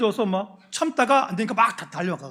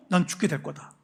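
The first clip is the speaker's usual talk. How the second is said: grieving lament; 3 dB quieter than usual. Retold or imitated. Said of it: "한을 갖고".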